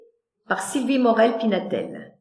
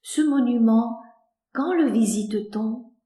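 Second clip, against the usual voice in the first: naive; 3 dB quieter than usual. Acted. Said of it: "Naïf".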